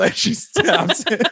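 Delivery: high, slow words through laughter; laughing. Real, not acted. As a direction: giggle through the line. Laughing while retelling stab.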